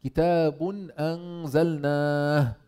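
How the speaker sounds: measured recitation with a drawn-out كتاب; Quran recitation. Shown as a demonstration. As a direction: recite it the way the verse is read. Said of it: "الله تعالى قال".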